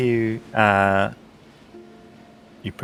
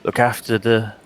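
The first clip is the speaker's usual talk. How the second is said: lightly voiced old priest; 2 semitones higher than usual.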